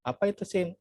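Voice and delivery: a Japanese listener confused by sim; puzzled Japanese listener. Retold or imitated. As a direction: ask it like someone who doesn't know the word. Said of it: "nggak tahu orang Jepang itu".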